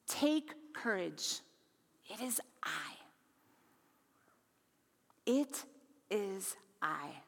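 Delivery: slow, soft, dropping to a whisper on "It is I"; a reverent, slowed-down echo of Jesus' words; slow hushed repeat. Shown as a demonstration. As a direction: let "Take courage" linger, then breathe "It is I". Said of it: "Take courage. It is I. Do not be afraid".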